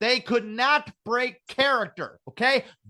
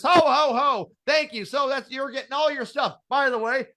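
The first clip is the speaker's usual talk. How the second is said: Santa voice; 5 semitones higher than usual. Retold or imitated. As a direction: play a jolly Santa to a kid. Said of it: "he says".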